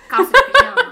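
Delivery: cracking up at the pajama pants; laughing. Real, not acted. Laughing at her own story.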